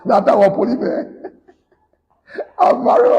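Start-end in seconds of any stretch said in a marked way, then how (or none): 2.6-3.1 high, ecstatic squeal of I'm married; squealed joy. Retold or imitated. Telling the wife's father he's married, in a high squeal of joy. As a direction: shriek it out like a delighted groom. Repeats his joyful outburst, laughing.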